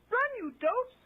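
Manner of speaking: high, loud command; cried out. A narrator's reading. Chameleon yelling at the men to flee, high loud cry. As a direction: yell at them to run. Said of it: "Chameleon cried".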